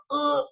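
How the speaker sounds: short breathy groan of distaste; disgusted ugh. Retold or imitated. Coach recoiling from the word goals, mild groan. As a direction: let out a quiet reluctant ugh. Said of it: "makes me go".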